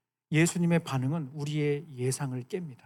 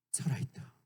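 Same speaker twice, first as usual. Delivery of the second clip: hushed whisper; 12 dB quieter than usual. Retold or imitated. Jesus raising the girl, whispered.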